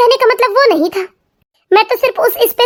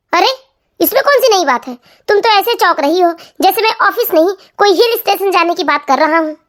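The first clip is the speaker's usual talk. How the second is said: lightly lowered husband voice; unbothered husband; 2 semitones lower than usual. Acted. Husband brushing off wife's shock, lightly lowered voice. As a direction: shrug off her surprise.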